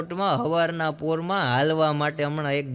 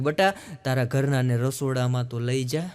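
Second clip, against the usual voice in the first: put-on old mother-in-law's voice; 6 semitones lower than usual. Mother-in-law scolding her son.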